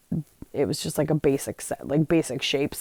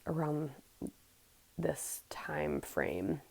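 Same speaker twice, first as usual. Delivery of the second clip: whisper; 15 dB quieter, much slower than usual. Real, not acted. Half-whispered aside mid-story.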